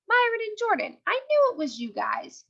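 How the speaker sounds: high, eager call out the van window; excited shout. Acted. Hurrah calling to her friends from the van window, high excited call. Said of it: "Hurrah shouted".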